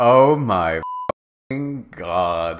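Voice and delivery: very slow, stretched-out mock scream. Ebony hearing about the concert, mock scream. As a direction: drag out the thrilled exclamation without full volume. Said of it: "I screamed".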